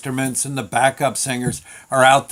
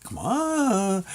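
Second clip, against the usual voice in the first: urging bandmates; 6 semitones higher, 4 dB quieter than usual. Retold or imitated. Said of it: "looking at him like".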